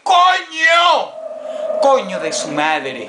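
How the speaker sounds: high shrieks and slow cursing; frightened screaming. Real, not acted. Gamer screams and curses at a scare.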